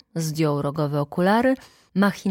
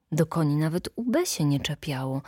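ordinary delivery

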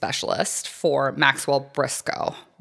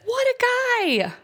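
sarcastic; slower than usual. Retold or imitated. Sarcastic praise of husband.

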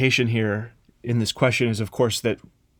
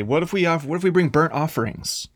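pleading bargain; 5 semitones higher than usual. Acted. Israelites bargaining with God.

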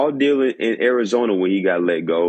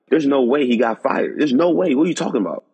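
higher-pitched, incredulous protest; can't-believe-it reaction, retold; retold disbelief; 4 semitones higher, faster than usual. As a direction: replay your disbelief, pitch climbing. Retells his disbelief at the firing news.

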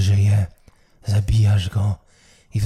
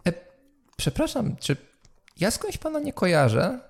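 townswoman's voice; 10 semitones higher than usual. Acted. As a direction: pitch way up as a curious city woman. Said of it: "odzywa się jakaś mieszczanka".

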